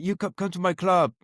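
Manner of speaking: a light repeat of the mock Spanish accent; imitating Spanish accent. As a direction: lightly echo the Spanish chap's broken English with a Spanish accent. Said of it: "That was a terrible Spanish accent then".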